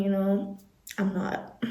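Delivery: a quick breathy whisper to herself; hushed confession, barely voiced; whispered aside. Real, not acted. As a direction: mutter it under your breath like a secret. Whispered aside, then said aloud.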